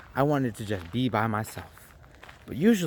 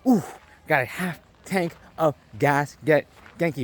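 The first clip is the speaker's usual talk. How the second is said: retold hype; 2 semitones higher than usual. Driver celebrating a half tank of gas, hyped. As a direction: relish each word, pumped up. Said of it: "And now I'm hyped".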